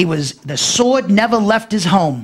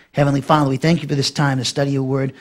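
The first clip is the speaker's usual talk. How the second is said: lower-pitched, even prayer voice; closing prayer; 5 semitones lower than usual. Real, not acted. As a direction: settle down from preaching into prayer.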